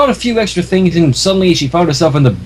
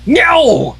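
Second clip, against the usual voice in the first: stubborn refusal; 10 semitones higher than usual. A narrator's reading. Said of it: "refused to move".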